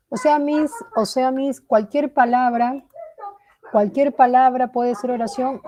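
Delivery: lightly voiced student question; questioning pupil. Acts a pupil querying the teacher.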